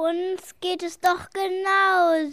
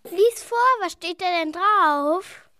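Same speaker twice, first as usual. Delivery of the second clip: louder, eager urging; 6 dB louder than usual. Acted. Kid urging a friend to read the scroll, eager and louder. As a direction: push them to read it out now.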